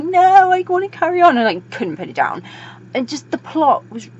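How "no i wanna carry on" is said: stubborn reader's high-pitched protest; mock whiny refusal. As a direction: protest loudly in a high put-on voice. Acting refusal to stop reading.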